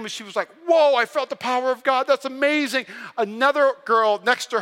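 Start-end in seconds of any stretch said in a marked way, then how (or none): 0.7-2.8 retold amazement, higher than usual; mildly hammed-up wonder; amazed. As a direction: imitate someone awed after a prayer. Retells girl amazed after prayer.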